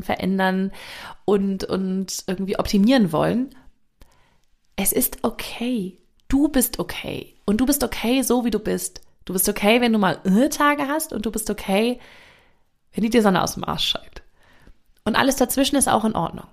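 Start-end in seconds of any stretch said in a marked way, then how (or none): 4.8-12.0 reassuring. Acted. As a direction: tell them gently they are okay. Reassuring the listener.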